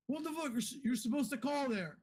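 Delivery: high, disbelieving mock cry; shocked outburst. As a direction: blurt it out as if the call makes no sense. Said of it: "You're like".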